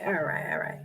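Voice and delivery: soft whispered all right, all right. Real, not acted. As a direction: drop to a breathy whisper to settle yourself. Repeats all right, then whispers.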